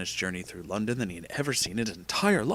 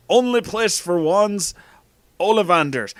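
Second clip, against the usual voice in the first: slow, loud faked accent; raised, hammed-up Hagrid accent; bad Hagrid accent; 8 semitones higher, 7 dB louder than usual. A narrator's reading. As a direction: draw it out in a poor accent. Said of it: "I really am not good at that accent".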